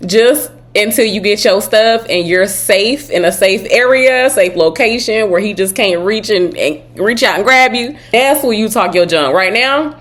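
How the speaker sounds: loud, amused pretend scolding; animated advice. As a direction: hush her loudly through a laugh. Advising friend, laughing, loud.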